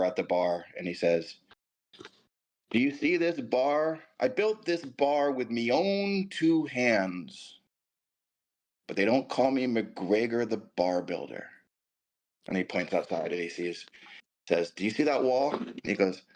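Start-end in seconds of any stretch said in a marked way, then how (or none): 2.7-11.5 slow, high Scottish brogue; a light put-on Scottish accent. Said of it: "I had the perfect Scottish accent". 14.7-15.5 put-on Scottish accent. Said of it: "I had the perfect Scottish accent".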